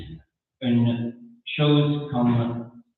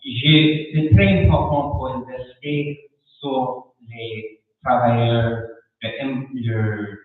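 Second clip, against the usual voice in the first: French spoken with a non-native accent; careful, halting second-language French with an accent; foreign accent in french. Real, not acted. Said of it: "pardon mon français, je parle lentement".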